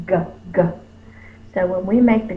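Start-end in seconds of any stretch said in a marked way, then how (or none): 0.1-0.6 G said twice from the back of the tongue; two hard Gs from the back; G sound demo. Shown as a demonstration. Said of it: "our tongue is in the back".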